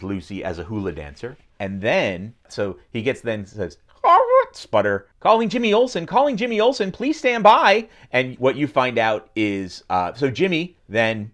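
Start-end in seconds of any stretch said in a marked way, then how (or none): 4.0-7.9 crackly transmission call; radio voice. Retold or imitated.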